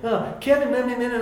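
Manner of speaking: high-pitched mock fretting at a brother; wound-up whining. Younger brother protesting to Kevin, imitated whining. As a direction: imitate a worked-up kid's protest. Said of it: "I would get wound up about something".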